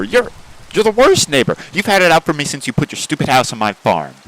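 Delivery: loud, heated yelling at a rude neighbor; angry shouting. Acted. Yelling at neighbor Buckle over the bad neighbor insult, furious. Acted quarrel with neighbor chicken.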